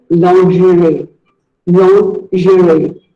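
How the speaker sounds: lingerie as lon-zhuh-ree, slowly; lingerie, the model way; correct pronunciation. Shown as a demonstration. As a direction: lingerie the French way, unhurried. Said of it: "It is actually called lingerie".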